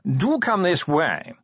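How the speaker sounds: slow, high, languid aristocratic voice; posh yawning drawl. Acted. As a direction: drawl every word like a yawn. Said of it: "modulated yawning".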